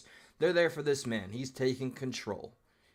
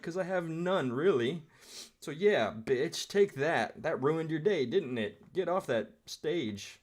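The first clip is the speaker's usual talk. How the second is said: mocking her inner voice; 4 semitones higher than usual. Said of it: "has just turned into".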